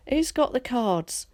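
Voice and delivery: a woman's high, slow call into the dark; mild yell. A narrator's reading. Woman in the crowd calling for her cards, mildly yelled. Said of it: "yelled a woman".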